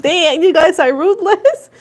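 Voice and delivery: put-on teasing boyfriend voice, slowed; amused fiance. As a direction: ham up the boyfriend laughing at them. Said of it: "'cause he's like".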